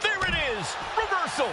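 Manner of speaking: high-pitched play-by-play burst; thrilled wrestling commentator, pitch way up; excited call. Real, not acted. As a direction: cry out the sudden counter. Commentator calling a sudden counter.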